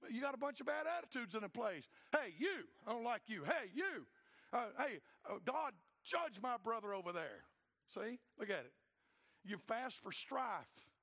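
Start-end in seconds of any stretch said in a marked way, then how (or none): 2.1-7.5 squabbling churchgoer. Acted. Quarrelsome churchgoers acted out.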